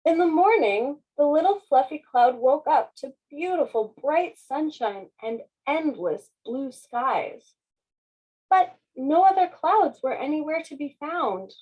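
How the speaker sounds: put-on lively read-aloud for children; story narration. A narrator's reading. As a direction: read it like a bedtime picture book. Reading picture book aloud.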